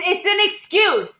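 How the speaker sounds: insisting loudly, stress on an; emphatic. Real, not acted. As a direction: hammer the point home. Friends arguing over excuse.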